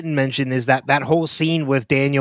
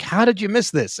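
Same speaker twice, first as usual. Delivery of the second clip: higher, exasperated, leaning on "did"; mock scolding; 7 semitones higher than usual. Annoyed listener scolding the podcast hosts, mock exasperated. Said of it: "a verbal slap in the face".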